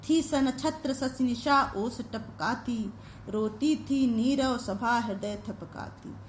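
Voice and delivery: slow, drawn-out verse reading; measured, deliberate poetic line; poem recitation. Acted. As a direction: recite the verse slowly, stretching the syllables. Recites the poem being taught.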